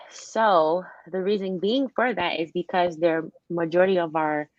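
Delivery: talking around a retainer; speaking with a retainer in; wearing a retainer. Real, not acted. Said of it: "sorry, I have my retainers in this".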